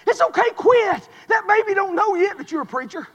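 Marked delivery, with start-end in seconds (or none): 0.1-1.1 tag. Acted. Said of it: "You know what old devil's doing".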